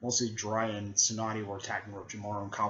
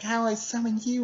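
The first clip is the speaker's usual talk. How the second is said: much higher voiced kid question; puzzled Naruto; 12 semitones higher, 4 dB louder than usual. Naruto asking the frog, high and puzzled. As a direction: ask it in eager confusion. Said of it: "she's like".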